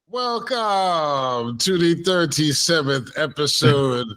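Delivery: slow, drawn-out show welcome; announcer intro. Acted. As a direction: stretch it like a radio host. Slow announcer-style episode welcome.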